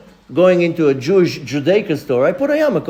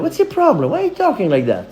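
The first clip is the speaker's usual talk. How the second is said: mock irritated what's your problem; with an attitude; 6 semitones higher, faster than usual. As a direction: turn around and call him out. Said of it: "with an attitude of".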